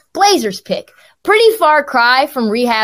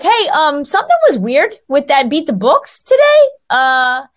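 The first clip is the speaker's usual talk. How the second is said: program director reading text; 4 semitones higher than usual. Retold or imitated. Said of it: "He's like".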